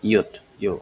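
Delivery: ইয়ট then ইয়ো, starting on a 'y' glide; letter sound demo. Shown as a demonstration. Teacher naming the letter J for learners, letter sound demo. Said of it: "এটা উচ্চারণ অন্ত্যেষ্টির মতো উচ্চারণ হয়".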